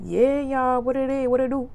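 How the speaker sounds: high, hammed-up upbeat greeting; fake cheer. Back from crying in the bathroom, fake cheer. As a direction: bounce back in, putting on a happy front. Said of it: "I be faking real bad".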